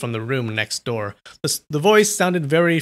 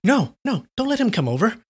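higher, rushed pleading; hurried objection; 9 semitones higher than usual. A narrator's reading. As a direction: stop it in a hurry. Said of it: "hurriedly objected".

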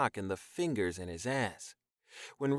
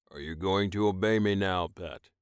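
firm, louder demand; stern commanding; 2 semitones lower, 4 dB louder than usual. Acted. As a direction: lay down the rules. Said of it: "Rojan asked".

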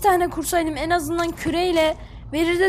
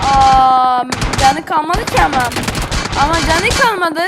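frustrated loud outcry; 2 semitones lower, 6 dB louder than usual. Real, not acted. Cannot finish the low enemy.

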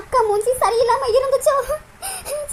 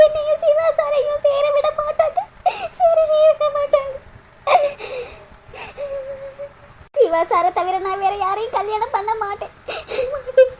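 tearful lament; 4 dB quieter than usual. Acted. Priya weeps alone over lost marriage.

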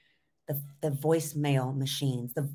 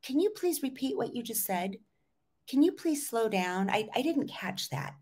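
gentle, courteous asking, a little higher; polite request; 6 semitones higher than usual. Shown as a demonstration. Coach shows clients how to ask someone to repeat, gently polite. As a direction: ask kindly without pressure. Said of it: "to ask in a nice way".

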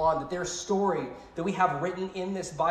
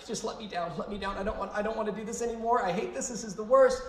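higher, hushed pleading, imitating his panic; retold tearful begging, pitched up; mock begging; 5 semitones higher than usual. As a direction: plead to be let down, half-acted. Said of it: "I am begging the instructor".

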